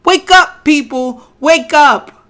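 loud wake-up call to the crowd; loud soapbox ranting. Real, not acted. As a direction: shout them awake. Exhorting audience to wake up.

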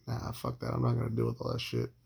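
hushed, breathy aside, nearly voiceless; muttered refusal. Retold or imitated. Refusing the neighbors' advice about her keys, a hushed aside. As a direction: say it under your breath so she can't hear.

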